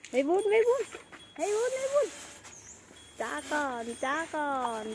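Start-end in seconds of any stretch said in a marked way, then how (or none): 0.1-2.1 squeaky high call of a name; high-pitched calling. Real, not acted. Calling the baby animal by name.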